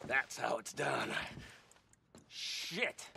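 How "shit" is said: breathless disappointed whisper; whispered curse. Acted. Robber finding only papers in the safe, whispered. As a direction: hiss it under your breath.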